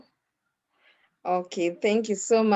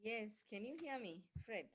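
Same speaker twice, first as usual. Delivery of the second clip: barely audible, far from the mic; weak, distant voice on a bad line; faint voice; 26 dB quieter than usual. Real, not acted. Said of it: "Your voice is very faint".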